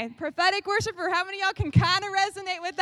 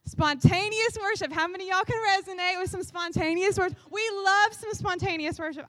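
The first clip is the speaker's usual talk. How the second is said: sarcastic enthusiasm; 3 semitones higher, 3 dB louder than usual. Acted. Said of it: "I'm being really sarcastic right now".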